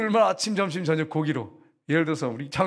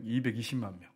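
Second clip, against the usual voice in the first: 이백이십만 repeated lower and softer; quiet echo; 7 semitones lower, 8 dB quieter than usual. Shown as a demonstration. Preacher echoing 이백이십만 softly, lower, to let it land.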